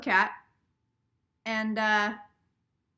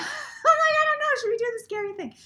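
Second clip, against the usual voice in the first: mock scared; 13 semitones higher, 5 dB louder than usual. Telling viewers she's home alone, mock scared. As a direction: play the frightened kid home alone.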